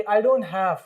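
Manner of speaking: "don't" as one syllable linked to have; contracted DON'T. Shown as a demonstration. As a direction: model "I don't have" blended. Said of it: "तो क्या pronounce करेंगे?". ("don't have" को जोड़कर बोलो)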